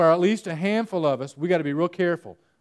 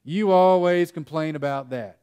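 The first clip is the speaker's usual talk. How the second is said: accusing example; 5 dB louder, slower than usual. Shown as a demonstration. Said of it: "Seriously, tell them".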